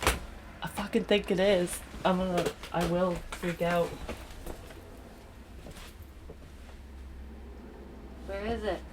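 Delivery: quiet, jumpy, scared of a mouse; whisper-tense, ready to jump; nervous and hushed. Real, not acted. Vlogger hearing a mouse nearby, nervous and hushed.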